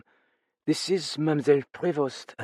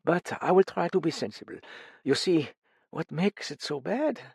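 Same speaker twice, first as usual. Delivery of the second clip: higher, strained, holding back grief; grieving mother; 8 semitones higher than usual. A narrator's reading. Mother confessing her guilt to the detectives, strained. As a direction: confess the pain in bursts.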